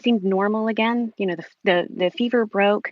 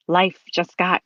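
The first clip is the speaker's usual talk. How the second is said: emotional. Real, not acted. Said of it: "Sorry, I'm emotional".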